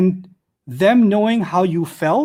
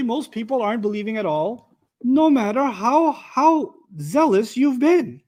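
higher, slow "no matter how"; earnest pleading emphasis; emphatic rephrasing; 5 semitones higher than usual. Shown as a demonstration. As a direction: stretch out "no matter how" with weight. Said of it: "And then you can say".

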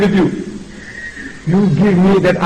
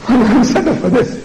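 higher voice with a laugh; laughing complaint; 5 semitones higher than usual. Real, not acted. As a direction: laugh while protesting. Laughs while repeating his complaint.

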